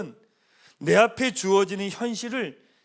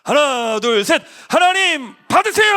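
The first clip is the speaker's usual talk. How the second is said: much higher and louder, drawn out, slow; loud rallying shout; 8 semitones higher, 10 dB louder, slower than usual. Real, not acted. Pastor leading the whole congregation in a loud throwing cry. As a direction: shout it out to lead everyone.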